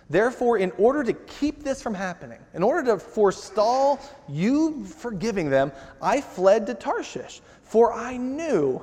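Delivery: whiny complaining Jonah. Retold or imitated. Jonah whining to God about forgiving Nineveh. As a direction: whine it like a sulking prophet. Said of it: "and just the tone".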